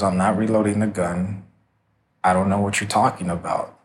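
mildly calm, understated denial; retold calm denial. Shooter denying to Jaime she is reloading, calmly. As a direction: quote her evenly, without any agitation. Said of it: "She very calmly says".

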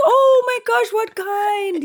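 very high, squealing giddy mom; giddy like a schoolgirl. Retold or imitated. Daughter imitating her mom getting giddy over mangoes. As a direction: gush like an excited schoolgirl. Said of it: "got giddy like a schoolgirl".

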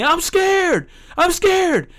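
very high-pitched imitation of a yelling kid; retold yelling. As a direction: cry it out like a kid made to yell. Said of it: "the kid's, like, yelling".

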